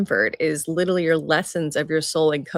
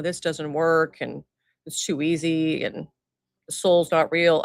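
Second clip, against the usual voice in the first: a hint of a stone gargoyle. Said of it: "Gargoyle voice is perfect".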